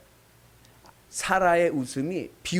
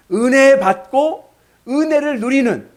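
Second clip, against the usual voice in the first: preached blessing; 9 semitones higher, 9 dB louder, slower than usual. Acted. Blessing climax.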